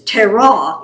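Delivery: Terah said slowly, stress on the second syllable; slow, leaning on the end of Terah. Shown as a demonstration. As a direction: Terah with the weight on its last syllable. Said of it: "put the emphasis on the second syllable".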